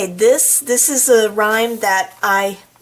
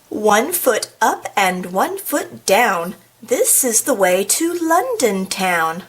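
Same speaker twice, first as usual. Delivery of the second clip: slow, measured rhyme reading; nursery rhyme recital; slower than usual. Acted. Reader recites a nursery rhyme to the audience, slow storytime delivery. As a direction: recite it in a steady, drawn-out beat.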